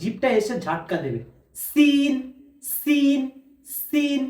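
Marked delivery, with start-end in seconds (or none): 1.7-4.2 সিন with teeth closed, tongue flicked; careful letter drill; Arabic letter demo. Shown as a demonstration. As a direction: repeat সিন higher and clearly. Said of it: "সিনও একই রকম ভাবে".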